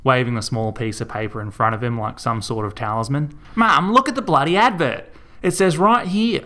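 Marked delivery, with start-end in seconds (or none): 3.5-6.4 high, loud pleading argument; heated protest. A narrator's reading. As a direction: argue back hard, slowing down. Son arguing back with mum.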